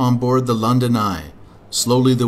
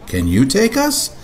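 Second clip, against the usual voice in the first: put-on much higher child voice; little girl voice; 7 semitones higher, 3 dB louder than usual. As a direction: voice a small girl. Katy voiced.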